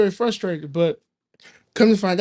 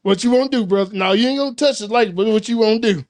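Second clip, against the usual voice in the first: mock challenge; 2 semitones higher, 3 dB louder than usual. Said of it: "He was like".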